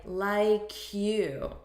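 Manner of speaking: "like you" run together as laikyu; linked like you. Shown as a demonstration. Teacher showing how the words blend, linked. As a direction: join "like" onto "you" smoothly. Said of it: "it actually sounds like".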